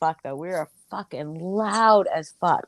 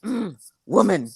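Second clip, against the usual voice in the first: caveman grunt. Retold or imitated. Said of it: "he went".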